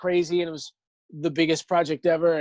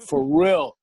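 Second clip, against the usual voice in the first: slow, emphatic; 6 dB louder than usual. Real, not acted. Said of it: "slow emphatic".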